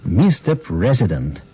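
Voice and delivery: Мистер as mister with American r, slow; Президент as prezident, American style, slow; American accent. Retold or imitated. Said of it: "с американским акцентом и прочту".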